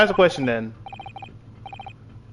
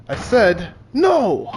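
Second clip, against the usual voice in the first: Russian sailor snaps, no much higher; an accented sailor losing patience; angry shout; 4 semitones higher, much slower than usual. Acted. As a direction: bark the no, cutting them off.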